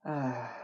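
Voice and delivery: soft acted sigh. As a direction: let out a sigh as you stretch out. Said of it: "he stretched out with a sigh".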